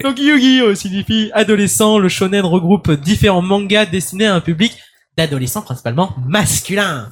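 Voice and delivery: lightly suave, distinguished reading; a hint of a silky, refined voice; sultry female voice. Shown as a demonstration. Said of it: "je vais le faire avec ma voix suave et distinguée".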